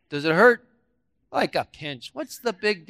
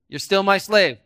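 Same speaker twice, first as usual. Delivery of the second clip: playing the devil; 4 dB louder than usual. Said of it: "I'm gonna be the devil".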